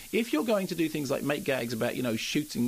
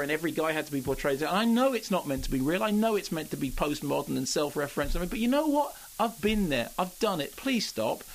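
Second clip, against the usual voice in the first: exasperated inner voice; 2 semitones higher than usual. Retold or imitated. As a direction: let the exasperation push the pitch up. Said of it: "part of me thought".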